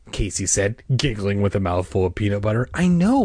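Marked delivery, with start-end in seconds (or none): 2.7-3.3 louder, higher, irritated retort; fed up and pitched up; impatient. A narrator's reading. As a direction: cut in with exasperation. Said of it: "Margaret said impatiently".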